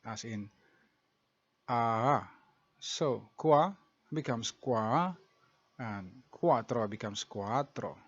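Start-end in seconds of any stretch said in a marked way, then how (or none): 2.8-5.2 "qua" with its A said twice, throat kept open between; slow double-vowel demo. Shown as a demonstration. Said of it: "pronounce the second A without closing your throat". 5.8-8.0 "cuatro" with a long doubled A, no glottal stop; slow double-vowel demo. Shown as a demonstration. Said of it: "pronounce the second A without closing your throat".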